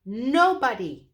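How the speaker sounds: very high, loud hoot. Acted. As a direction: call it out like an owl. Owl shouting.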